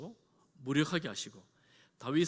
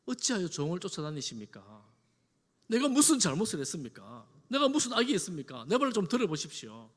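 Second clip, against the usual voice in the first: aggrieved appeal, rising in force; acted heartfelt protest, building from subdued to insistent; anguished plea; 3 dB louder than usual. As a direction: plead your innocence to a king. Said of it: "너무 안타까운 마음으로 말합니다".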